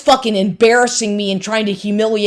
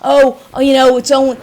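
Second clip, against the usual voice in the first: mocking imitation; 5 semitones higher, 3 dB louder than usual. Mocking ex's excuse.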